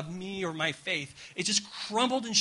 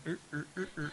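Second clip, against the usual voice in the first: soft ticking noise; cat clock ticking; 8 dB quieter, faster than usual. Retold or imitated. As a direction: mimic the creepy clock's eyes. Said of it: "cat clock where the eyes would go".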